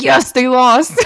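slow, drawn-out mock triumph breaking into laughter; gleeful gloating. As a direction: laugh through a retold cheer. Retelling gleeful reaction to pageant loss.

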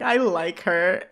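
low, slow lovestruck dope; mock dopey infatuation, drawn out; giddy and stupid. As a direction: play it slow and stupidly smitten. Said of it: "very giddy and stupid".

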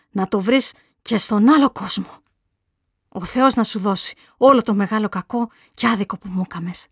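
angry curse. Acted. Mother cursing the girl she blames, angry.

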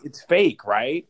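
high, loud panicked denial; freaking out. Retold or imitated. Telling Kevin the news can't be true, panicked. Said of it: "And I was freaking out".

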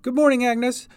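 high, loud hurried greeting; rushed, high-pitched hello; panting greeting. A narrator's reading. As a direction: call it while rushing past, out of breath. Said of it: "panted Cat".

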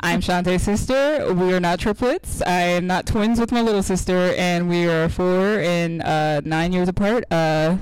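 addressing the congregation before the pastor, as an announcement; mock disclaimer. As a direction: read it like a formal church announcement. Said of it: "just a disclaimer".

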